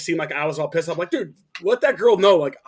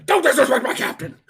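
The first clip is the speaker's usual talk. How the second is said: high-pitched mock outburst; indignant drunk buddy; 7 semitones higher than usual. Drunk buddy defending his captain, indignant mock cry. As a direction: imitate a drunk man protesting, pitched way up.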